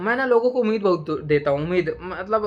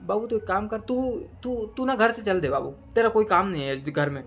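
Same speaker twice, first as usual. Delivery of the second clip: mock affectionate; 3 semitones higher than usual. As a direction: gently break bad news, playing it sweet. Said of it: "प्यार से बोलेंगे".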